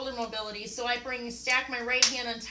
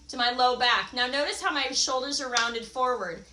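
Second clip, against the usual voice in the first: muffled. Real, not acted. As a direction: voice muffled, face down on the mat. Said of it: "so if I sound muffled".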